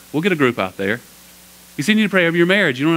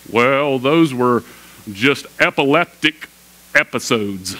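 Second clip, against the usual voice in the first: mock skeptic; much slower than usual. Voicing skeptics who explain away demons.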